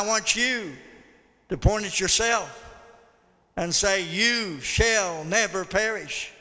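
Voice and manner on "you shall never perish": drawn-out, deliberate pronouncement; slow, weighty delivery; emphatic declaration. Shown as a demonstration. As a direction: stretch each word out firmly. Shows phrase for congregation to repeat.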